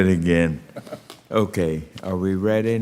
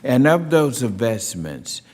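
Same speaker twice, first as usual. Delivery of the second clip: measured, formal hearing-room delivery; formal opening statement; 2 semitones higher than usual. Real, not acted. Chair opening a hearing on rural broadband, formal speech. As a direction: read it as prepared remarks for the record.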